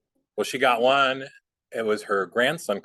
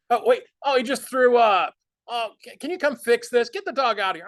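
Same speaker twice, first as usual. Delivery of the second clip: hammed-up panicked yelling, much higher and louder; mock panic; 14 semitones higher, 5 dB louder than usual. Faking a dog emergency to keep the scammer on the line, hammed-up panic. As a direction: yell for help like the dog just threw up. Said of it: "We'd say".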